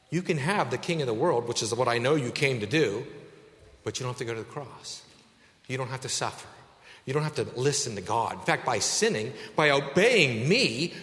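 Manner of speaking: hushed, coaxing voice of Satan; Satan tempting. Acted. Voicing Satan's tempting offer.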